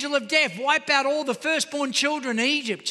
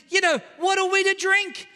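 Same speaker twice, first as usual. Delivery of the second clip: grumbling shout; 5 semitones higher than usual. Retold or imitated. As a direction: shout the crowd's demand at Moses. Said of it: "the people grumbled against who?".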